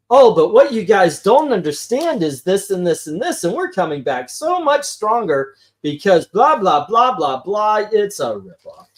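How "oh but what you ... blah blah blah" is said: oil baron impression. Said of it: "He sounded like, uh, the B P oil baron from South Park".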